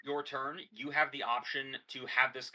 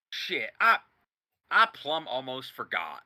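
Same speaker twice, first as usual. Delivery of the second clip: affable. Acted. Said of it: "in a very affable".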